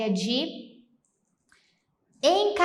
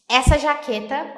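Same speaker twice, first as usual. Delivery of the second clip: excited shopper; 4 semitones higher, 6 dB louder than usual. Acted. Acting a shopper's delight.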